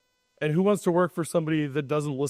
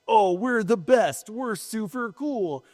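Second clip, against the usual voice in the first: slow, raised-pitch mock boast; mock bragging; 4 semitones higher, slower than usual. Host mimicking carriers' posts to drivers, mock bragging. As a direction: drag it out, imitating a self-satisfied company post.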